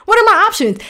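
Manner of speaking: laughing through the line; laughing repeat. Real, not acted.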